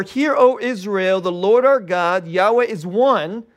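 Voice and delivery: slow solemn reading of the verse; scripture recitation. Acted. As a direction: read it like holy text, slowly. Reads the Shema slowly.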